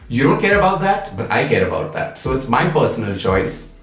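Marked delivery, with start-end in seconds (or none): 0.1-1.2 high, put-on voice mimicking the hater; mock them with a high, sing-song imitation; sarcastic high-pitched parody of a commenter. Mocking the commenter's stance.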